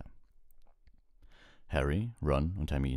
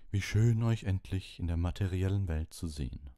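soft smoky voice; 2 semitones higher than usual. Acted. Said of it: "eine sanfte, rauchige Stimme".

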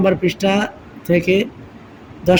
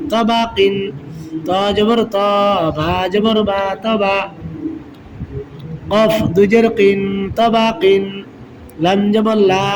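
steady, measured syllable-by-syllable chant; rhythmic Qaida spelling drill; spelling drill recitation. Shown as a demonstration. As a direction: call out each letter and vowel like a reading teacher. Teacher spells out Arabic syllables.

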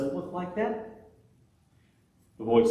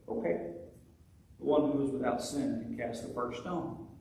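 soft, gentle and kind, without judgment; compassionate; 4 dB quieter than usual. Retold or imitated. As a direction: speak it gently like a merciful Lord. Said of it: "The voice of the Lord was compassionate and truthful".

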